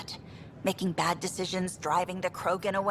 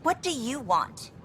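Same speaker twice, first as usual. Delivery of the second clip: higher-pitched, testy challenge; irritated snap; 4 semitones higher than usual. Acted. Worker after a row turns on a visitor, irritated snap. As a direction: snap at someone who has just walked up. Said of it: "I'm sorry I snapped at you".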